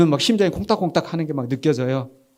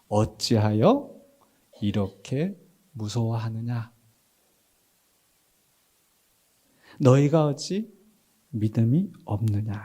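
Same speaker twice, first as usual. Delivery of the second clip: slow, measured and lowered voice; solemn scripture reading; 5 semitones lower, slower than usual. A narrator's reading. Preacher reads Jesus' question to disciples, solemn and slow. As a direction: read it out slowly with pauses.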